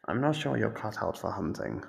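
usual speaking voice

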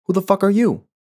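shouted, sharp and high; angry demand. Acted. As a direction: bark it at the intruder. Man demands of a stranger.

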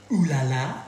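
mock French ooh la la; a hammed-up French exclamation. Cook joking to his son in mock French. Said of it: "As the French say".

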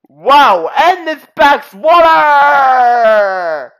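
real startled cry, last word held long; exclaim, stretching the final word right out; drawn-out exclamation. Real, not acted. Player reacting to the water in the game, drawn-out exclamation.

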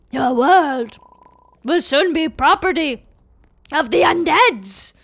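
lightly voiced undead overlord; threatening villain. Villain threatens the humans' world, in menacing proclamation. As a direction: proclaim it, slowing at the end.

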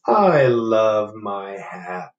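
very slow, satisfied; content bear. Acted. Bear happy to have his hat back, slow and content. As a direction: savour every word.

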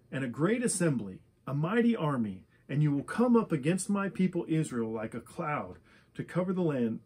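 measured read-aloud Bible passage, phrase by phrase; lightly formal public reading; scripture reading. Acted. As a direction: read out the prophecy in even, deliberate phrases with small pauses. Reads scripture aloud to listeners.

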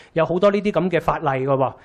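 normal talking voice

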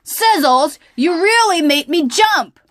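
high, loud shaken exclamation; startled. Acted. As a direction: still reeling from the fright. Charlie startled.

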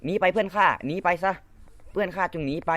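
high, hammed-up dramatic hero; mock heroic. Gamer to his teammate, hammed-up heroic farewell. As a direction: play the noble sacrifice for laughs.

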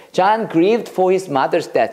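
"John grieved for his mother's death" read very slowly; slow teacher read; slow model sentence. Shown as a demonstration. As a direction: spell it out slowly for memorizing. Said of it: "자, 이걸 외우자".

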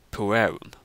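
puerum slowly, final m trailing from the vowel; final M demonstration. Shown as a demonstration. Giving a Latin example, puerum with trailing final m. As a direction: let the end of puerum melt into a hum. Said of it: "extension of the previous vowel".

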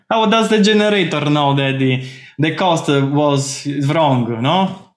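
hint of a Russian-sounding mock Italian accent; attempted Italian accent, sounding Russian. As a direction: lightly put on Italian that slips into Russian. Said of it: "actually a Russian accent".

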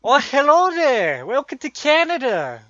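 loud, high, drawn-out Canadian greeting; slow, hammed-up Canadian accent; botched North American accent. Shown as a demonstration. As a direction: belt out an over-the-top Canadian accent. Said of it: "American accent. Ready for this?".

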